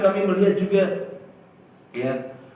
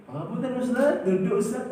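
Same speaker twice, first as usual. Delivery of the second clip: polite reminder; 7 semitones higher than usual. Retold or imitated. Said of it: "saya lihat".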